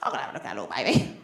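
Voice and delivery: put-on whispering to herself about a stranger's baby; sneaky whisper. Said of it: "I'm like".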